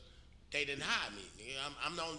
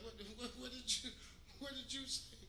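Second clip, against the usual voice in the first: the boss can't believe what he just heard; higher, incredulous "what did you say?"; retold disbelief; 10 semitones higher, 5 dB quieter than usual. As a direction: pitch jumps up in stunned disbelief. Boss stunned by the retort.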